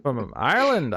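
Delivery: put-on failed stab at an Irish accent; bad Irish accent. Giving up on the accent, half-hearted bad Irish. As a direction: try Irish and miss. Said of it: "I can't do it".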